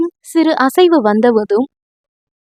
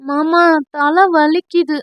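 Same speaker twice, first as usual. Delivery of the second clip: aching head; 3 semitones higher, slower than usual. Acted.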